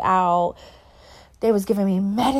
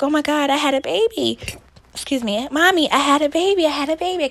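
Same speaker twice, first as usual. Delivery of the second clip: dazed excitement; 5 semitones higher than usual. Retold or imitated. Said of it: "she told me I kept saying that".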